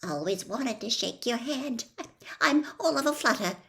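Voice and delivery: a fan tripping over her words; flustered admirer. Acted. Doris flustered by Harry.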